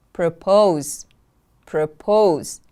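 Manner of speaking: "Propose" with POSE stressed and falling; careful teacher's "Propose", weight on the second syllable. Shown as a demonstration. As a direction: model "Propose" as pro-POSE. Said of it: "The stress is on the second syllable".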